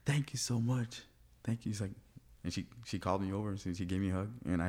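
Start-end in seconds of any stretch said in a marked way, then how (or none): 0.0-1.7 slightly high, mildly emotional retold thanks; a touch of tearful gratitude. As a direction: lightly imitate someone thankful through happy tears. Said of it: "crying with tears of joy".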